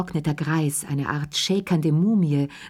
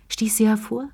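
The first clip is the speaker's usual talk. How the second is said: plain reading voice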